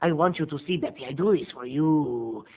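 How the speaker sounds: lightly voiced killer. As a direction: coax her like a gloved killer. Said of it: "you hear the killer's voice going".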